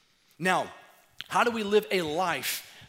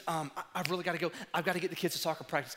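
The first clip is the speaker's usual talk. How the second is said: rushed brush-off; much faster than usual. Retold or imitated. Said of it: "We'll say".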